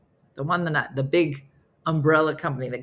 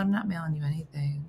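hushed refusal; 5 dB quieter, faster than usual. Retold or imitated. Refusing the rep's request.

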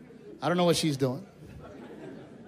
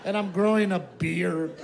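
mock crying wife. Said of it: "My wife was crying. She goes".

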